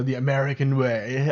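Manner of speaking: slight British accent. Real, not acted. Host slipping into the phrase by accident, slight British accent. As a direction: slip lightly into British vowels. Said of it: "said that in a British accent".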